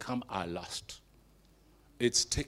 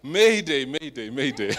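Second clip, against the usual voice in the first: mock distress call, laughing; hammed-up panicked mayday; mayday radio call; 6 dB louder than usual. Peter sinking, calling for help.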